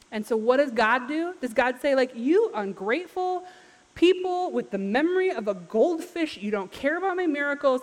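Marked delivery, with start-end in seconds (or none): 2.1-7.8 higher-pitched, exasperated telling-off; mock scolding. Imagined God scolding the forgetful Israelites, mock exasperated. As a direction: berate them with exaggerated exasperation.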